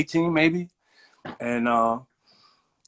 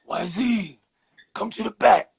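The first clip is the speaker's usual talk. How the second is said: put-on hammy old shop owner voice, higher; bad acting; 7 semitones higher than usual. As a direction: put on an old Jewish store owner, pitched up. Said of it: "excuse my acting 'cause I'm not an actor".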